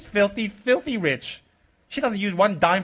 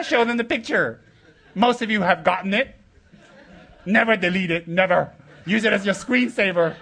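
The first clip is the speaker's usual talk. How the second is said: laughing decree; 5 semitones higher than usual. Real, not acted. Joking, laughing at disciple.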